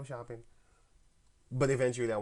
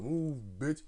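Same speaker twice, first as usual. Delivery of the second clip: a rapper's line; 4 semitones higher than usual. Retold or imitated. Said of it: "Literally that rapper, that song".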